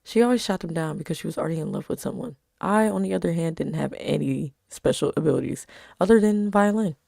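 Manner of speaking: even storytelling read; story narration. A narrator's reading. Reading her story aloud.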